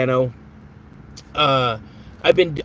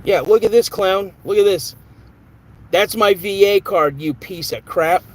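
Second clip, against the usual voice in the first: ticked off; 3 semitones higher than usual. Real, not acted. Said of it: "I don't normally get ticked off real quick".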